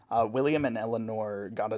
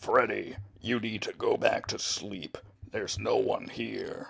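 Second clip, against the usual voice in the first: put-on creaky character voice. Asked to do a character voice: Bon Bon voice. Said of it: "That's my Bon Bon voice".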